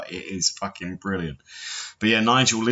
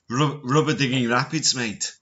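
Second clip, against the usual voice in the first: mock British-film character voice; movie quote; 3 semitones higher than usual. Quoting Four Lions to his co-hosts, put-on accent. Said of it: "I'm quoting the movie here".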